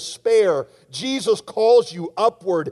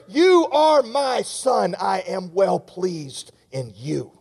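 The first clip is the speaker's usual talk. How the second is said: Father's blessing; slower than usual. Retold or imitated. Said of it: "you need to hear".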